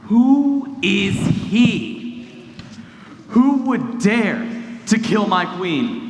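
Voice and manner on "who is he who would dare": outraged king. Acted. King outraged at threat to queen.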